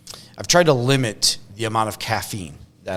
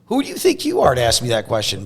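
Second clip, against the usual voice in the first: mock defensive comeback. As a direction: push back as if mildly affronted by a question. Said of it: "you might get defensive".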